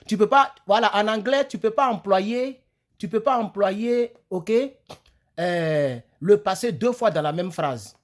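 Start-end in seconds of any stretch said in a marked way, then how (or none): 0.1-4.1 "pas" stretched and raised, higher and louder; stress on pas. Shown as a demonstration. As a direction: insist on the rule. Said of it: "teacher stressing a rule".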